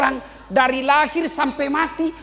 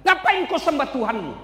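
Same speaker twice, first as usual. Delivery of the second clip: higher, needling devil's voice; Satan taunting; 4 semitones higher than usual. Acted. Satan taunting Ayub, higher needling voice. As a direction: goad him to give up. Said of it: "Datang lagi setan".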